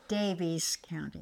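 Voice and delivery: Daviess County, whispered slowly as DAY-vees County; whispered correction. Real, not acted. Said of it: "You said Davis".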